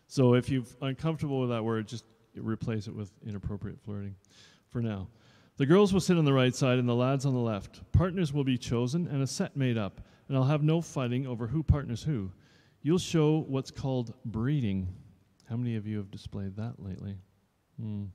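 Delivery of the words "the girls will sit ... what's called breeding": strict dance teacher. Acted. Dance teacher addressing new pupils, mildly stern. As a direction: lay down the rules.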